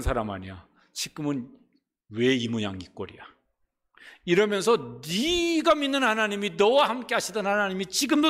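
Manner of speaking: jeering sneer at a fallen hero; mocking taunt. Mockers jeering David on the run, scornful taunt. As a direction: taunt him for his bad luck, scornful. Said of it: "그러면서 조롱하고 무시하고 욕을 하는데".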